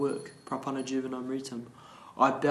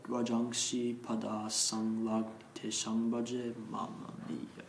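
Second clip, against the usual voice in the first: slow, drawn-out chanting on a level tone; measured devotional chant; Sanskrit verse recitation; slower than usual. Real, not acted. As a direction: intone the verse syllable by syllable.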